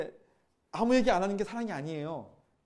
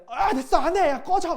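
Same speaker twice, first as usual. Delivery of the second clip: higher, louder, exasperated brush-off with a laugh; fed-up outburst; 11 semitones higher, 11 dB louder, slower than usual. Retold or imitated. Giving up on a repeat sinner, mock angry outburst. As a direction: snap it off like you've had enough. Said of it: "막 이렇게 우리가 얘기하는 거죠".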